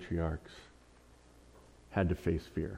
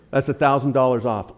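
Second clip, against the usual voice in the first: laughing, hammed-up sales pitch; louder, pushing the discount like an ad; infomercial; 2 semitones higher, 5 dB louder than usual. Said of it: "I sound like an infomercial".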